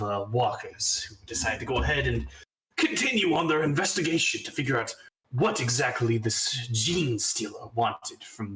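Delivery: measured storytelling with pauses for suspense; game master recap. A narrator's reading. Game master to players about the last episode, measured narration. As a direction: recount the battle like an episode recap.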